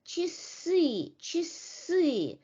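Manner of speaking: "Часы" said chi-SY, short i then stressed final vowel; "часы" with weak first syllable, long falling second; unstressed A as E. Shown as a demonstration. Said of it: "loses its quality and becomes e".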